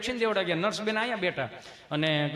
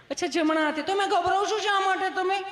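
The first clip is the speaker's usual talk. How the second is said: much higher, sweet nurse voice with a laugh; 12 semitones higher than usual. Retold or imitated. Teller voicing the nurse asking why he is scared. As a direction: pitch way up, coaxing the nervous patient.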